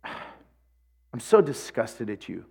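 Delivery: slow, low, quiet disgusted teacher; a lightly voiced stern teacher, slow and hushed; teacher's disgust. Teacher scolding the rebellious student, slow and disgusted. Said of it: "he goes".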